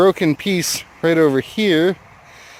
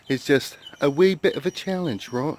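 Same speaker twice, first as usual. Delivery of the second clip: lightly put-on British accent; playful hint of British accent; mock British accent; 4 dB quieter than usual. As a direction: toy with a British lilt on the phrase. Playfully puts on British-style accent.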